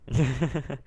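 soft giggle to oneself; quiet chuckle. Real, not acted. Player amused at his own cheat, quiet chuckle. Laughs after giving himself food.

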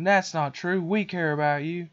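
lightly voiced, high, earnest cartoon bears; pleading Care Bears. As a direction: imitate cute bears insisting they care. Care Bears reassuring the boy.

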